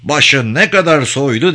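coaxing praise; caressing voice. A narrator's reading. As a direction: flatter the bull soothingly, voice lifted. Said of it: "dedi okşayıcı bir sesle".

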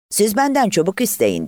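mild, high-pitched boastful roar; understated thunderous boast. A narrator's reading. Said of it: "Böyle gürledi".

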